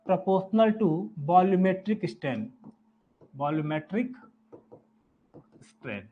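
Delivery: very slow, each word spaced for note-taking; dictating slowly word by word; slow dictation. Real, not acted. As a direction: spell it out slowly for students to write. Teacher dictating formula for notes.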